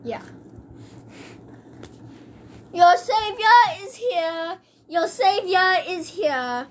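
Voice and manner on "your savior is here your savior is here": slow, lightly heroic announcement; grand proclamation. Pretend. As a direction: announce yourself as the hero. Grand entrance with card.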